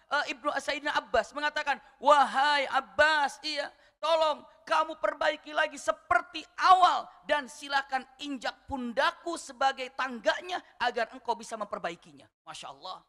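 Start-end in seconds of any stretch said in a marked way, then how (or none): 2.0-12.3 loud call. Acted. Umar calls to Abbas.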